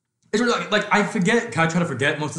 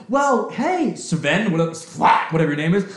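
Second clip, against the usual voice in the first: higher, overexcited pep talk; mock eager goth boy; 5 semitones higher than usual. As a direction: ham up a nerdy kid's big reveal. Mocking goth boy's pep talk.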